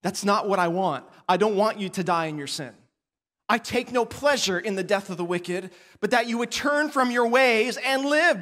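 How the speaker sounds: a touch of tender pleading; God gently answering the people, mildly reassuring; God's reply. Retold or imitated. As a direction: gently urge them to turn. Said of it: "what does God respond?".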